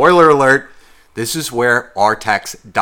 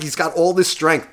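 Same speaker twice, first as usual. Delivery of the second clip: ordinary talk, nothing marked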